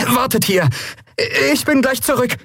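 put-on quick hurried order from a boy; boy telling his friend to wait, lightly voiced; young boy.

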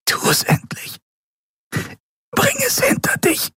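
tonlos geflüstert, kaum hörbar; resigniertes, stimmloses Flüstern. A narrator's reading. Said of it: "flüsterte sie". (leise geflüsterte Aufforderung, sich zu ergeben)

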